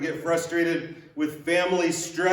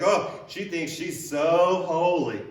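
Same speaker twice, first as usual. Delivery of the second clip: snide mimicry; slower than usual. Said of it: "Very snidely and very rude".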